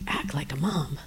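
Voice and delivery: low, hushed questioning echo; barely voiced, doubtful question; whispered disbelief. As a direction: repeat it under your breath, unsure. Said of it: "And I was like".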